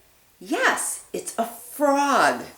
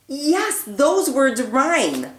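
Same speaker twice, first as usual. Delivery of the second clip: excited praise; 4 semitones higher, 3 dB louder, slower than usual. Acted. Excited praise after gasp.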